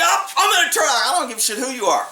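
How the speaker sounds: imitating a huffy defense attorney yelling; huffy retort. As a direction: play the offended lawyer hamming up his outrage. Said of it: "he gets all huffy".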